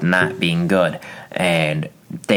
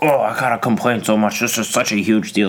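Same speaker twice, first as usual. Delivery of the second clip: mock whiny complainer; 3 semitones higher than usual. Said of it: "people are like".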